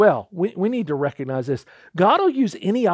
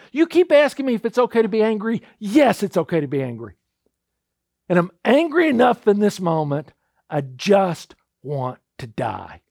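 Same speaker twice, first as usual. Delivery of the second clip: a touch louder, indignant retelling; uncorking anger; 3 dB louder than usual. Retold or imitated. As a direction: vent the hurt over the little plant. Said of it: "he just kinda uncorks on God".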